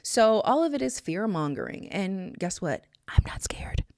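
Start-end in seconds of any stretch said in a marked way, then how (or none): 3.1-3.8 voiceless, whispered declaration; hushed, unvoiced statement of resolve; defiant whisper. Real, not acted. Defiant answer to fear-mongering.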